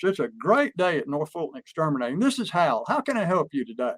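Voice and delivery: lively company phone answer with life in it; model phone greeting. Shown as a demonstration. Boss shows staff how to answer the phone, upbeat. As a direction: show the team an upbeat greeting. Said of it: "I'll do it first".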